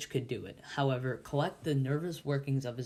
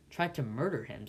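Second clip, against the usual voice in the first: disdainful. Acted. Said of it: "said my convict disdainfully".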